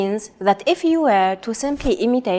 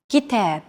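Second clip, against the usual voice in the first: Kitab with a longer second syllable, -TAB; short Ki, stressed long tab in Kitab. Shown as a demonstration. Teacher showing Arabic stress timing, stressing second syllable. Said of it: "second syllable is stressed".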